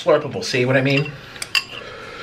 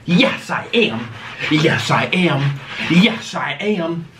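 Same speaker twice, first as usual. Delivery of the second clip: slow, stubborn yes i am, said over and over; drawn-out insisting; much slower than usual. Real, not acted. Slowly insisting to her companion that she is using them for views. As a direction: dig in and stretch every word.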